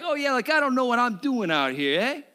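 a hammed-up sarcastic fisherman; Peter impression. Pastor's playful impression of Peter answering Jesus, a hint of sarcasm. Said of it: "my best impersonation ever".

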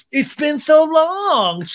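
very high, loud, drawn-out squeal with fake laugh; stretched, shouted mock delight; mock excitement. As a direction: ham up a long-lost reunion, then cackle. Mocking Sandoval greeting Raquel.

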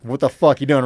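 retold yell from mom's boyfriend; New York tough guy. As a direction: lightly imitate an angry New Yorker yelling. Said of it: "dude with New York accent".

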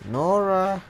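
drawn-out call, rising then held; playful searching call. Pretend. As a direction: call out for someone in hiding. Calling out for game character.

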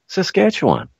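Saskatchewan in a high, mock Canadian lilt; Chicago accent. Shown as a demonstration. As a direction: Saskatchewan sung high with a flat broad a. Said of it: "You want my Chicago accent to come through?".

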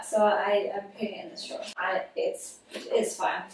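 secretive hushed whisper. Real, not acted. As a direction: whisper it so nobody hears. Whispering about hidden laundry.

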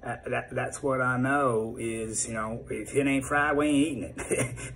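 a hint of a Southern good old boy; Southern accent. Shown as a demonstration. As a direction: lean into a Georgia-Texas twang, lightly. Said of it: "I could go from the South".

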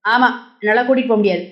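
fast, swaggering ஆமா, என்னால கூட்டிட்டு போக முடியாது; fast cocky refusal; putting on bravado. A narrator's reading. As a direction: hide the worry behind quick swagger. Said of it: "வெளியே கெத்தாக".

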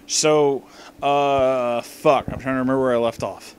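tipsy after two bottles of wine. Real, not acted. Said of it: "I'm really drunk, you guys".

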